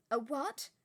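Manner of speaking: taken aback; baffled. Acted. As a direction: McGonagall puzzled by the offer. McGonagall baffled.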